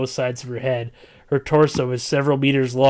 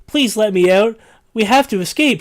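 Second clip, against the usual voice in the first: high, loud pleading scream; 9 semitones higher, 8 dB louder than usual. Acted. Trapped girl screaming at the narrator to free her. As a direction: scream to be let out, much higher and louder. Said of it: "she screams at me".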